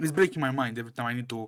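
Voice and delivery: quick, rattled-off talk.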